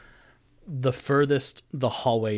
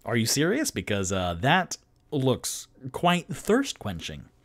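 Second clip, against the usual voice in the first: bard voice; 3 semitones higher than usual. Acted. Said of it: "and Three Strings says".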